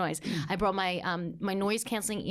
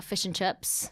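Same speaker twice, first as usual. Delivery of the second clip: imitating a New Zealand accent; 2 semitones lower, slower than usual. Shown as a demonstration. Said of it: "it's a little like New Zealand".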